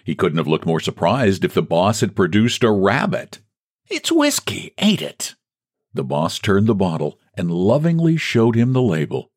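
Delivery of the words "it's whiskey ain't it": put-on old clerk's eager question. Old man eyeing the bottle.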